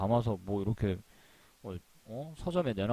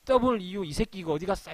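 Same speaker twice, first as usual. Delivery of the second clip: mock phone yell; 7 semitones higher than usual. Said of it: "더 화나면 전화로 부르겠죠".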